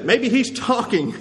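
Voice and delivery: slow, lightly sarcastic supposition; mocking. Elijah explaining away Baal's silence, mocking. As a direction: offer a drawn-out mock excuse. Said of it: "Elijah mocked them".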